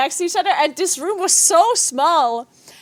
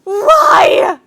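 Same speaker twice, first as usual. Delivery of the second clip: high wailing cry of despair; anguished shout; 13 semitones higher, 9 dB louder than usual. Real, not acted. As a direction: howl it at the sky. Failed key, anguished.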